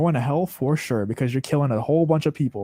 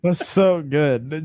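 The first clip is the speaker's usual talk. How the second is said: laughing; 2 semitones higher, much slower than usual. Real, not acted. Laughing at a funny video.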